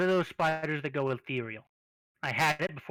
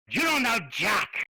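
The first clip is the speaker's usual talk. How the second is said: slow, higher teasing shout; mock shout; 6 semitones higher, slower than usual. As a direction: shout the joke at him. GM's teasing outburst in character.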